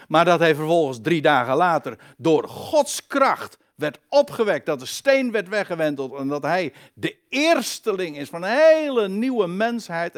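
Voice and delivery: forceful, rising proclamation; fervent preaching. Real, not acted. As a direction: proclaim it with building conviction. (bevlogen, krachtig preken)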